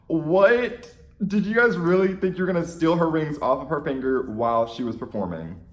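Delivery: loud, high disbelieving "what?"; incredulous outburst. Retold or imitated. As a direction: scoff at the fans in disbelief. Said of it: "I was like".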